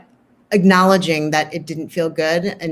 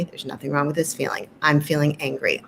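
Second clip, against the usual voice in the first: soft mantra; 3 semitones lower, 5 dB quieter than usual. Shown as a demonstration. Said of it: "a mantra that you might suggest".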